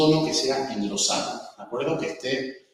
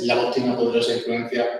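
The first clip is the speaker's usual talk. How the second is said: voz de robot; 2 semitones lower than usual. Shown as a demonstration. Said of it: "Suena un robot".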